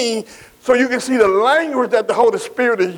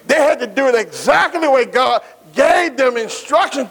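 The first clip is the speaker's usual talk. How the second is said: raised preaching voice, stress on gave; preaching shout. Acted. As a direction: drive it home to the congregation. Preaching at full force.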